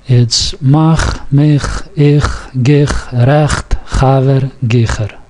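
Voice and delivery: "mach", "gich", "recht", "chaver" and "gicher" each with a guttural ch from the back of the throat; throaty ch sound. Shown as a demonstration. Teacher modelling the Yiddish ch for students to repeat. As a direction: rasp the ch at the back of the throat in every word. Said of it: "let's try this again".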